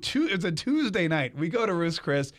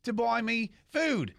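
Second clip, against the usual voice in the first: Impression of a country singer; 6 semitones higher than usual. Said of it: "'Cause that's how he talks".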